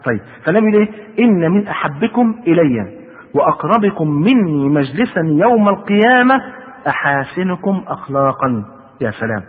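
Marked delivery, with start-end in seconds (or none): 1.2-8.7 very slow, drawn-out formal reading; measured sacred quote, stretched words; hadith quotation. A narrator's reading. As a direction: recite it phrase by phrase, slowly.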